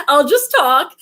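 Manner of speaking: laughing through the words, slowly. Real, not acted. Telling viewers she'll just talk, laughing. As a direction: let a laugh carry the words out.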